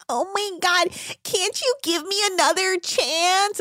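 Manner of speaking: high mock plea; mock crying plea. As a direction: beg like a sobbing stew. Mocking crying stewardess.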